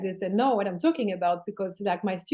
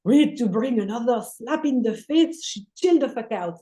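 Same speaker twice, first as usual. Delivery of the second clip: louder, put-on soul voice, fed up; a touch of an annoyed inner voice, louder; exasperated soul; 4 dB louder than usual. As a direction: play the soul losing patience with its human.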